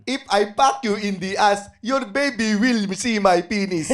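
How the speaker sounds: put-on Nigerian accent. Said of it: "pamura kay Nigerian James".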